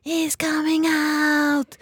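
mother in labour calling out the birth, a mild mock yell; retold yell. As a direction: stretch out the cry like calling across the delivery room. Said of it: "Og så roper jeg".

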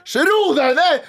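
high, exclaimed telling-off; mock scolding. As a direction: burst out with a playful order to settle down. Jokingly scolding the politician directly.

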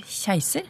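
"keiser" begun with a soft kj; kj pronunciation. Shown as a demonstration. Host asking which dialect says it, soft kj in "keiser". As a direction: say "keiser" as "kjeiser". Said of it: "hvilken dialekt er det som sier".

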